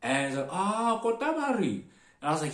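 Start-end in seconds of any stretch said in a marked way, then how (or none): 0.5-1.7 high, loud mock realization; sudden recognition. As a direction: cry out as if it just clicked, pitched up. Sudden recognition of the stop's name.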